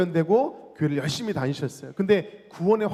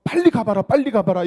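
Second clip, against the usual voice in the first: urgent voice; 3 semitones higher, 6 dB louder than usual. Retold or imitated. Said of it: "급한 마음을 주시면서".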